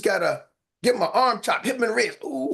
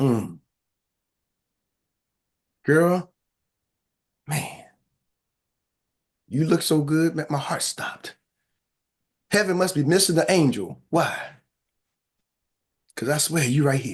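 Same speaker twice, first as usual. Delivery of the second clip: put-on low, seductive, sexy voice; 6 semitones lower than usual. Showing the fellas how to deliver pickup lines, putting on a sexy voice. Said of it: "I'm gonna put my sexy voice on".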